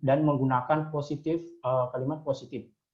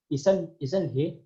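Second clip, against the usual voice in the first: slow, stressed "isn't he" tag; question tag stress; 3 semitones higher, much slower than usual. Shown as a demonstration. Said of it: "Jadi di sini ada penekanannya".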